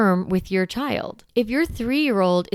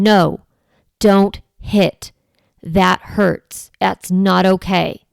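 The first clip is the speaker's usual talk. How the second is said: firm voice; 3 dB louder, much slower than usual. Shown as a demonstration. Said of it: "using that firm voice".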